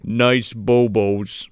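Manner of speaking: very slow, low character voice; Norm. Acted. Riffing as the gnome, slow low imitation. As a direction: stretch it out, pitched right down. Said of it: "he talked like Norm".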